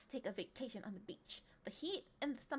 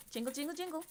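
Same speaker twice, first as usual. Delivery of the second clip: lightly raised, chirpy jingling chant; playful attention-getting; 3 semitones higher, faster than usual. Pretend. Streamer jingling money to hold attention, playful chant. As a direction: jingle at them like distracting a baby.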